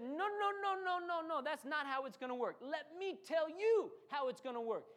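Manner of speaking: David shouting down fear, high; emphatic defiant no. Acted. David defying fear, acted.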